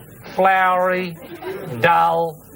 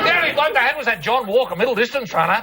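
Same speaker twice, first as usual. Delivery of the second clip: ranting; 8 semitones higher than usual. Acted. Escalating mock rant about Kiwis.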